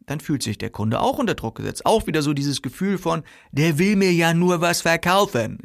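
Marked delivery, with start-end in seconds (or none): 3.5-5.6 higher, mildly put-on grumble of suspicion; suspicious customer. Customer about a pushy seller, suspicious. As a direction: voice a customer who feels pressured, pitched up.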